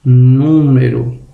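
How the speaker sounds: slow "número" with a long first "nú"; "número" as a careful stress example; stress on third-last syllable. Shown as a demonstration. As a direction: lean on the opening of "número". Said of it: "a antepenúltima sílaba é a sílaba tônica".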